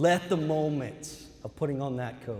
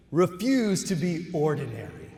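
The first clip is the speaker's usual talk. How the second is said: louder, emphatic declaration; rousing call; 3 semitones higher, 6 dB louder than usual. Acted. Speaker rallying new doctors, loud and emphatic. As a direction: proclaim it to the graduates.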